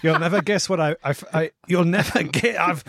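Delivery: stumbling restarts through a laugh; struggling through laughter. Acted. Podcaster struggling to tell toilet tale to the boys, laughing. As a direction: try to stay in the bit while cracking up. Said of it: "I'm struggling here".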